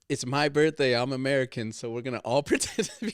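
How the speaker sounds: lightly hammed-up entitled birthday American; mock self-important announcement, breaking into laughter; imitating an American tourist. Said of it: "you're doing an American thing".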